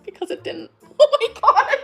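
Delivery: loud, high laughing exclaim. Real, not acted. Realizing she was gaslit, loud laughing oh my God. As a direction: laugh it out in disbelief.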